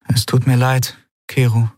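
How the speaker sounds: lightly voiced young woman, sorry; apologetic heroine. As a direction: say sorry gently. Andriel apologizes.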